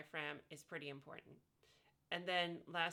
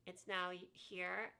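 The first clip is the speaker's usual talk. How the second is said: bright raised voice; slower than usual. Shown as a demonstration. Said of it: "when I combine it with the E sound".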